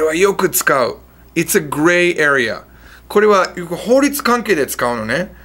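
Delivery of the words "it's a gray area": 1 slow demo. Shown as a demonstration.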